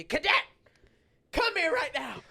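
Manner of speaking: loud, high barked command; drill sergeant. Pretend. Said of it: "sound like you're a drill sergeant".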